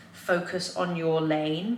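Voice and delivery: very slow, measured affirmation; dictating slowly to oneself; writing aloud. Real, not acted. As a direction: stretch the words out as you write. Says affirmation while writing it.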